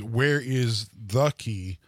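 slow, deliberate "the"; stress on THE. Shown as a demonstration. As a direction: spell out each word, leaning on "the". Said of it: "The, the is capitalized".

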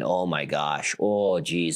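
lightly voiced Midwest mom, Fargo accent. Imitating Heidi's Midwest mom in a sketch, light Fargo accent. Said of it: "she leans into her Fargo accent and plays a Midwest mom".

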